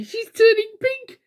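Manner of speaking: very high, slow mocking taunt; teasing. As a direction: gloat over her blushing. Naughty teases Miss Shy.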